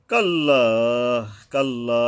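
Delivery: কাল্লা with final "laa" drawn out one beat; one-alif stretch. Shown as a demonstration. Teacher models the elongation, কাল্লা with held ending. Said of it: "এখানে এক আলিফ টান আছে".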